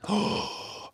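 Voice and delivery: startled. Real, not acted. Startled by a sudden loud sound.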